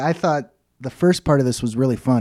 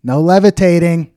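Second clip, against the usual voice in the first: a touch of a scolding wife; reading the wife's line with mild scolding; stern wife; 3 semitones higher, 7 dB louder than usual. A narrator's reading. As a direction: clip it like a wife laying down the rule. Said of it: "his wife walks in and says".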